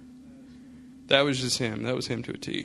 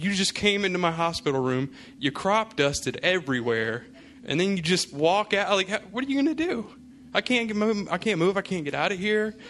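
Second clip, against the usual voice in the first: incredulous exasperated rant; 6 semitones higher than usual. Retold or imitated. Son scolds dad after fart.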